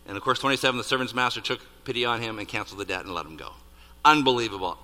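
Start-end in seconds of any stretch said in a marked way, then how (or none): 4.0-4.8 amazed. Real, not acted. Preacher marvels, then repeats bigger.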